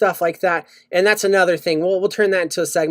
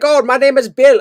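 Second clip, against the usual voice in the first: lightly imitated Indian accent, higher; 4 semitones higher, 3 dB louder than usual. Spam caller introducing himself under an American name, mock Indian accent. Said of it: "I'm not trying to do the accent".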